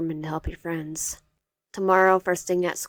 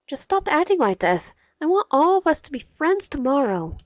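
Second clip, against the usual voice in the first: higher, louder urgent plea; 9 semitones higher, 6 dB louder than usual. Acted. Wyatt urging Cairo to stop acting this way, higher and loud. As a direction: beg him to stop, raised voice.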